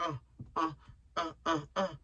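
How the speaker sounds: soft trembling uh uh uh, mimicking fever shakes; mock shivering stutter like a famous singer; imitated shaking grunts. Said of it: "I was doing the singer".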